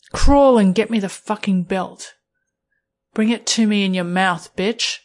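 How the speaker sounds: dominant, contemptuous command; harsh order. Acted. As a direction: order them to crawl, no patience. Dominant narrator ordering partner.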